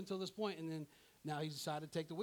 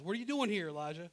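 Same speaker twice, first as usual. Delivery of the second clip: voice of the Lord; 4 dB louder, faster than usual. Acted. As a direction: put the question to him loudly as God. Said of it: "Lord says".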